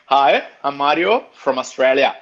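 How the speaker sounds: lightly attempted Australian accent, laughing into it; hint of an Australian accent, pitched slightly up. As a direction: try an Australian accent, not very convincingly. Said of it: "in an Australian accent".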